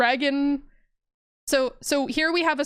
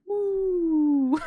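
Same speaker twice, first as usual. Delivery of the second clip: whale call; 5 semitones higher than usual. Acted. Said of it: "it sounds like".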